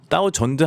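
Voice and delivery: "thousand" said "tau-JEON-deu"; mispronounced "thousand". Shown as a demonstration. Teacher warning learners off the error, mispronounced "thousand". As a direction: turn the Z of "thousand" into a J. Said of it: "하면 안 돼요".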